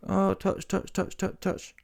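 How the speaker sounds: soft, breathy mock taps, mimicking feather punches; mocking light touches. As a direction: tick off each touch softly, mocking.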